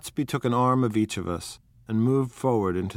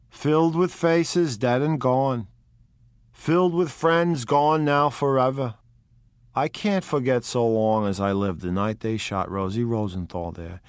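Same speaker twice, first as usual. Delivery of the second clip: higher, louder gangster lost in memories; Wolfsheim; 4 semitones higher, 4 dB louder than usual. Acted. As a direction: relive the fatal night for the young man. Wolfsheim recalls Rosie's murder.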